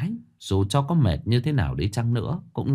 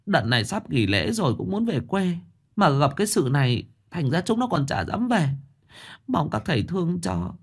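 high, whimpering, close to tears; old mother begging the masters, whimpering about her daughter; whimpering plea; 7 semitones higher than usual. A narrator's reading. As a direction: plead tearfully with the masters. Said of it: "mếu máo".

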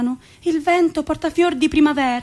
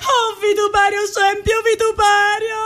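mock lament; 5 semitones higher than usual. President's lament acted.

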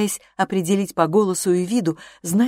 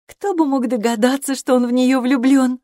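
higher and brighter, marvelling aloud; exclaiming; 6 semitones higher, 5 dB louder than usual. A narrator's reading. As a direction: wonder at a surprise. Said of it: "восклицала Гарриет". (восклицая с удивлением)

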